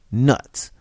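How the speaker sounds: loud scornful snort of a word. Acted. George snorts at the stranger, loud and scornful. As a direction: dismiss it with contempt. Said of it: "George snorted".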